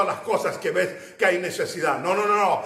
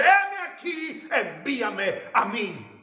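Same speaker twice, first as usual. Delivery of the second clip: proclaimed answer; slower than usual. Acted. Isaiah's answer voiced in sermon.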